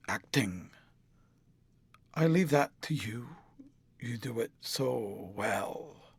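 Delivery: low, slow, bitter reply. A narrator's reading. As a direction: sneer it back at her, quietly. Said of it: "he answered bitterly".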